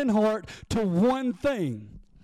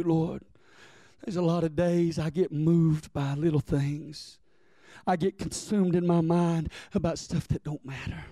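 lower, confessional prayer; humble prayer; 6 semitones lower than usual. Pretend. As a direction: pray it like an honest confession.

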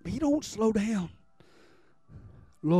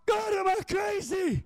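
exclaimed question; 9 semitones higher than usual. Retold or imitated. His question to God, high shout.

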